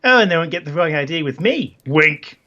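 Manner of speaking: put-on accent, teasing; Isabella. Isabella teases about the parents' wrong idea, put-on accent. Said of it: "this is the best accent ever".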